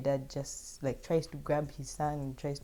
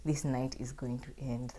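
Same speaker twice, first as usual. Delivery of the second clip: relieved whisper; 2 semitones lower, 6 dB quieter than usual. Retold or imitated. Telling her story to viewers, a relieved whisper. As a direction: breathe out the relief in a hush. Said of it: "I just feel, like, relief".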